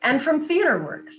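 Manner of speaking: polished radio announcer credit read; sponsor read. Acted. Radio professional taking the show off air, announcer read. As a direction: announce each sponsor with crisp emphasis.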